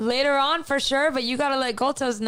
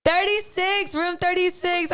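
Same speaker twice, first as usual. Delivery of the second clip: cheerful callout; 4 semitones higher than usual. Real, not acted. Cheerfully calls out room number.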